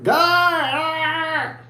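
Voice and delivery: high, drawn-out mock cry; imitation of a squirming man's cry; mock squirming wail. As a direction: let out a long high squirmy "aah". Acting out the squirming man.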